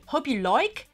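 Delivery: "like" said as "loik", Cockney style; Cockney accent. Shown as a demonstration. Vlogger testing how "like" sounds, Cockney accent. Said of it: "'cause that's like a Cockney accent".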